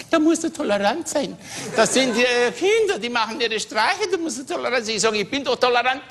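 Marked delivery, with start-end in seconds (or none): 0.1-5.0 a higher nagging wife voice, lightly put on; wife's voice. Wife lecturing the husband to be tolerant. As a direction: play the scolding wife.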